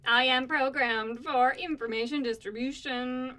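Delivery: slow, lightly robotic delivery. Acted. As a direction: speak like a programmed machine. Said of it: "I am librarian bot five thousand".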